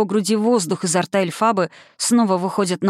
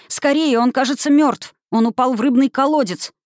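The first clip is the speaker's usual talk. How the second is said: high, loud panicked cry; frightened shouting; 6 semitones higher, 3 dB louder than usual. A narrator's reading. Children shouting to the sisters in fright. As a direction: alarm rising in the voice. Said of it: "закричали они".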